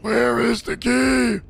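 slow, stretched, exasperated; 1 drawn-out plea. Real, not acted. Gamer stuck searching for the key, stretching it out. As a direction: drag every word out in frustration.

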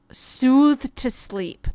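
very slow, stretched soothe to sleep; slow soothing read; drawn-out soothe. Real, not acted. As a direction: draw it out soothingly. Reads option slowly.

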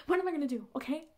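loud, exasperated plea; desperate caller. Acted. Woman glued to her own cheek phones friend, loudly desperate. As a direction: burst out helplessly at a friend. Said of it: "because she is desperate".

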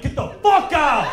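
shouted high and loud, laughing; loud laughing outrage; mock patriotic yell. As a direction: yell it like throwing him out. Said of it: "I'm like".

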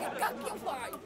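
hissed under the breath; whispering. Acted. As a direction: whisper it sharply to a friend. Hushed aside to stoned friend.

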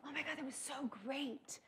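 high, soft gush of praise; put-on casting director, high and gushing. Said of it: "all the casting directors telling me".

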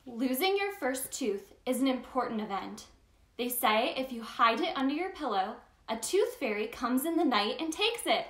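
gentle storybook narration; reading to children. Acted. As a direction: read it like bedtime story time. Reads picture book aloud.

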